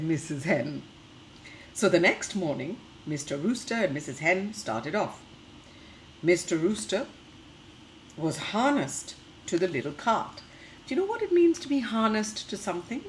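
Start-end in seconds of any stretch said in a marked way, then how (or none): 1.7-10.4 lively storybook reading for little ones; reading to children. Acted. Teacher reading a picture book to the class, lively storytelling. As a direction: read the tale brightly to the class.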